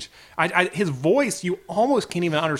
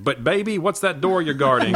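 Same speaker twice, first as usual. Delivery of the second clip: caption misquote; 2 semitones lower than usual. Retold or imitated. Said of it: "the YouTube caption said".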